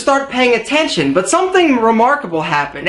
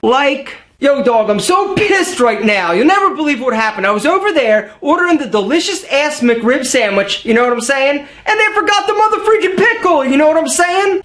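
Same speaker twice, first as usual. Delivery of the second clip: mock bro; 3 semitones higher than usual. Mocking a filler-word bro.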